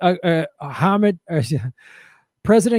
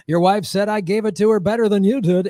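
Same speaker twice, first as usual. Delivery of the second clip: lightly voiced host teasing; announcer patter heading to a break; game show voice guy. Host taunting the husband, game show voice. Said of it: "if the game show voice guy was like".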